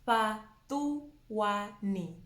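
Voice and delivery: "Patuani" very slowly, syllable by syllable; soft FH, broken down. Shown as a demonstration. Teacher demonstrating the F H name, slow soft-FH syllables. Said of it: "a very soft sound".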